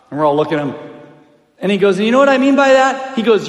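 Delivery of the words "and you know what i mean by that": loud, higher, demanding question; retold coach's challenge. Coach dad confronting his players, forceful challenge.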